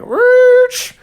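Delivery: loud, high hype intro; segment announcer. Acted. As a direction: announce it like a show host. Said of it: "create, like, a segment".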